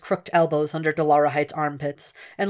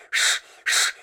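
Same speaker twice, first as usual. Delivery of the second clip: hushing. Acted. Dragon snaps at Hannibal.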